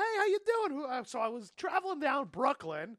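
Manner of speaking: put-on high-pitched Jewish Brooklyn accent. Comic playing to a Jewish show, high Jewish accent. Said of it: "I did Jewish voice for".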